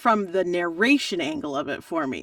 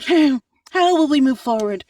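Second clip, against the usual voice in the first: mock businesslike; 6 semitones higher, 7 dB louder than usual. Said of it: "I was being a grown up".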